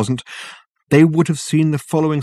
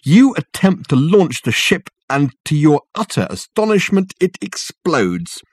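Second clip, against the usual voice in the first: high, loud, slow scornful mockery; mock him with the story, slowly; sneering, drawn-out ridicule; derision; 7 semitones higher, 4 dB louder than usual. A narrator's reading. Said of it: "said Dirk in a voice ringing with derision".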